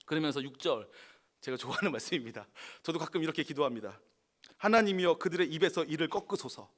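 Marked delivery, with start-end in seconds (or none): 4.6-6.7 angry prayer. Acted. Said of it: "너무 화가 나니까".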